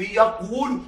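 يقول as yaq-wu-lu, with consonant w; heavy underlying form. Shown as a demonstration. Teacher showing a word heavy on the tongue, يقول as yaq-wulu. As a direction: sound out the awkward w in يقول. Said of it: "ثقيلة على اللسان".

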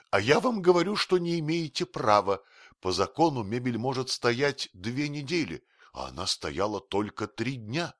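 high, loud, insistent arguing; heated high-pitched pleading of one's rights; agitated protest. A narrator's reading. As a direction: pester with indignant objections. Protester argues, pestering the bailiff.

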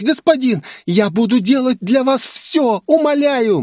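high, babbling excuse. Acted. Demoness panics over ocean. (высокий испуганный лепет)

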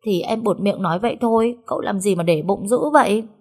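a hint of a sulky pout; mildly offended girl; sulking. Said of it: "tỏ ra giận dỗi". (giọng hờn dỗi nhẹ)

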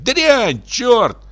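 shrieked curses. A narrator's reading. Housekeeper shrieks after the fleeing general, screeching. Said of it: "А она ему вслед".

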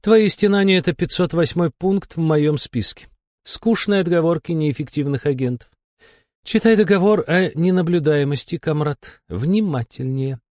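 high-pitched, weary woman boss; bored, dismissive female character, pitched high; bored demon curator. A narrator's reading. Bored curator scolds the agent.

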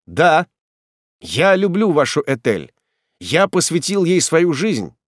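ardent declaration. Acted. Young man declares his love.

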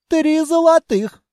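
high, slow, businesslike little creature; drawn-out price from a small bat; bat's haggling voice. Acted. Bat demands payment.

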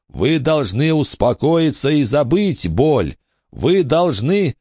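high pressing call; urgent plea. A narrator's reading. Billy urging the ghost to forget the pain. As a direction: try to calm him.

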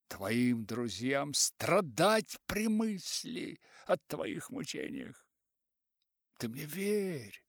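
put-on old writer warning. Old writer warns, slow.

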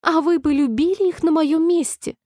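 an offended little mouse squeaking back; squeaky offended mouse. A narrator's reading. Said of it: "пронзительно пропищала мышь". (писклявый обиженный голос мышки)

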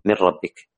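"من ربك" with the nun merged straight into the ra, no nasal hum; idgham without ghunna. Shown as a demonstration. Teacher recites an example of idgham without ghunna to students. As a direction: recite "من ربك" as one flowing word, ra doubled. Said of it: "مثاله هي نفسها الإدغام بغير غنة".

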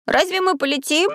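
high, amazed question; surprised. Acted. Maxim doubting the bow will let him fly, high surprise. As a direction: ask in disbelief, voice up. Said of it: "удивлённо спросил Максим".

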